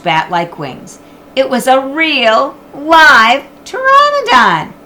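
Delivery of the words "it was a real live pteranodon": awed narration. A narrator's reading.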